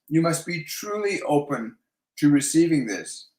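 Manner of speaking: "truly open" given clear weight; stress on truly open. Real, not acted. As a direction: lean firmly on "truly open". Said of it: "they're really emphasizing the words truly".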